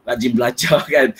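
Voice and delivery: teasing, breaking into a short laugh; mock praise with a chuckle. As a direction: laugh through the repeated praise. Repeats the tease, laughing.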